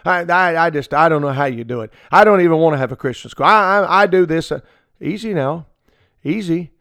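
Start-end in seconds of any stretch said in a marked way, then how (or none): 0.0-4.5 fast, louder flustered ranting; exasperated outburst. Retold or imitated. Visitor ranting to the pastor, fast and exasperated. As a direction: rush it like they can't fathom it. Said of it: "people that have said things like this".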